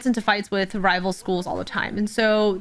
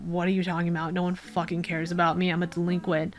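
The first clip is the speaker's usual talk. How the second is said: low-key, softer retort; dismissive teen; 3 semitones lower, 5 dB quieter, faster than usual. Acted. Delinquent tells Death no one cares, quiet dismissal. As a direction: brush them off under your breath, imitating a sullen kid.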